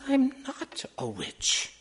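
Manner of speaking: high, slow, drawn-out protest; amused denial. A narrator's reading. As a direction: deny it in a high voice, stretching the words. Woman denies being a witch.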